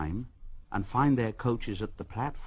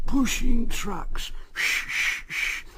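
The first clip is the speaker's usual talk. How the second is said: high, slow and louder engine grumble; louder grumbling engine; 12 semitones higher, 5 dB louder than usual. A narrator's reading. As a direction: push harder, the chant swells. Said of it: "muttered to himself".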